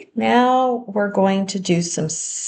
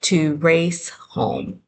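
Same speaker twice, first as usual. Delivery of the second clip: very slow, each word spaced; slow dictation; much slower than usual. Shown as a demonstration. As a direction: dictate it slowly for writing. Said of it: "try writing".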